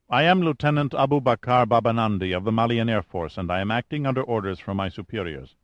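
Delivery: lightly voiced officer, firm and formal; unyielding pilot. Pilot ordering the scientists off his plane, unyielding. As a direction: dismiss their concerns with cool formality.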